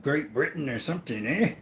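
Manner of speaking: put-on British or Aussie-sounding accent; lightly hammed-up mock British accent. Teasing a mate about England, mock British accent. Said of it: "Best British accent".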